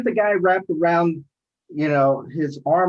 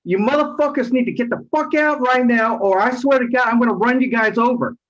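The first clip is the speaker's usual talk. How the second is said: raised pitch, heated retelling of an ultimatum; retold angry threat; 6 semitones higher than usual. Driver ordering attackers out of his van, retold angry threat.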